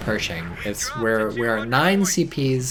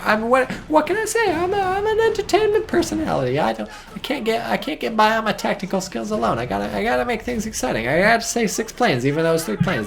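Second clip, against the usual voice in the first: hammed-up entertainer; 10 semitones higher than usual. Real, not acted. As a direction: ham it up like a showman. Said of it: "I was exaggerating for comic effect".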